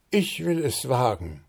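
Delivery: high, puffed-up declaration; little bird prince boasting his courage; proud announcement. A narrator's reading. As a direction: proclaim it bravely, chest out. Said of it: "verkündete Zwitschi mit stolz geschwellter Brust".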